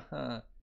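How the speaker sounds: short falling laugh; a brief, put-on chuckle; acted laugh. Laughing about the baby before saying he isn't cute, acted laugh.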